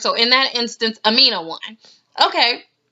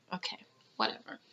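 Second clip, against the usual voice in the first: breathy unvoiced mock whisper, much softer; a rapper's voice; 11 semitones lower, 20 dB quieter, faster than usual. Mocking a reality star's brush-off, whispered. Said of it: "in a rapper's voice".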